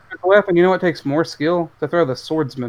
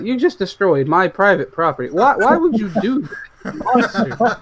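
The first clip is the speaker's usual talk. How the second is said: mock wounded homeowner; 4 semitones higher than usual.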